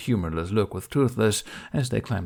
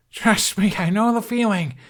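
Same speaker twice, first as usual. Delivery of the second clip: high, loud yell over the wind; 12 semitones higher, 5 dB louder than usual. A narrator's reading. Hiccup yelling to Toothless over the wind. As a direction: shout it over roaring wind. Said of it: "he yelled into the bluster".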